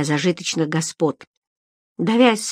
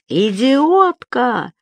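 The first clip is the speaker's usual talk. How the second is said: roaring insult; 6 semitones higher, much slower than usual. A narrator's reading. Baker roaring at his clumsy wife, furious. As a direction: roar it at the fallen wife. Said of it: "взревел булочник".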